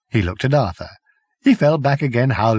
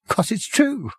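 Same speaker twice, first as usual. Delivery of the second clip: weak Prack voice; 5 semitones higher than usual. A narrator's reading.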